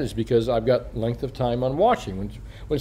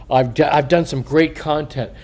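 usual speaking voice

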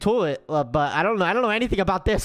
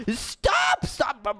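very high, squealed shout; frantic cry; 6 semitones higher, much slower than usual. Pretend. Gamer locked in by sisters, shrieking. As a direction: shriek it in mock panic. Tries to escape locked room.

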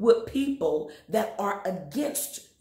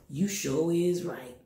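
sarcastic agreement; 4 semitones lower, slower than usual. Pretend.

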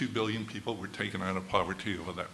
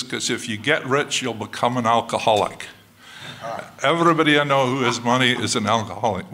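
a hint of the mother, rising louder to the end; getting louder as she lays down her warning; mother's warning; 6 dB louder than usual. Mother warning her son about money, a little louder each line. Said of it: "She says".

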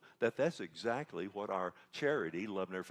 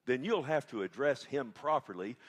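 raised, loud mock indignation; somewhat indignant; 4 semitones higher, 7 dB louder than usual. Receptionist correcting a caller about her pastor, indignant. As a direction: imitate an affronted receptionist, louder. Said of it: "Somewhat indignant".

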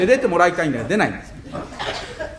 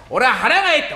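hungry shout; 8 semitones higher than usual. Acted. Husband shouting he's hungry.

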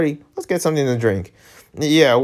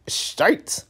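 whispered curse; 6 semitones higher, 5 dB quieter than usual. Real, not acted. Swears after a miss.

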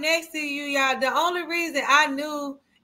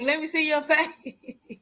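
slower retake, breaking into laughter; softened redo; slower than usual. Shown as a demonstration. Friend backtracks after being told off for wording, softened laughing redo. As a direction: take the edge off and laugh through it. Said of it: "I ain't mean to say it like that".

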